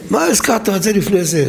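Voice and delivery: lightly voiced scholarly annoyance; mock annoyed rebuke. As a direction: imitate a rabbi getting annoyed with his helper. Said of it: "הוא היה מתעצבן".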